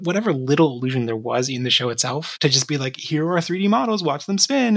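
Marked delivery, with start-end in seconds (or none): 3.0-4.8 higher-pitched sarcastic showing-off; mock presenter. Mimicking whoever approved the spinning models, mock-impressed.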